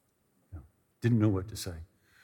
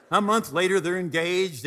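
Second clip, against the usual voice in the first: ordinary delivery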